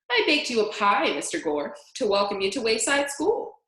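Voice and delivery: a hint of a thick, sloshing cook; lightly voiced cook offering a pie; muddy sloshing voice. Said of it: "voice was like two boots sloshing through mud".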